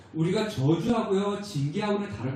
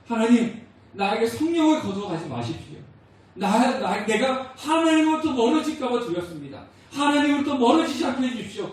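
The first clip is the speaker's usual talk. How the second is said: higher, louder pleading prayer; tearful prayer; 5 semitones higher, 4 dB louder than usual. Retold or imitated. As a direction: beg God as if near tears. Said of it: "눈물을 흘리면서 기도했어요".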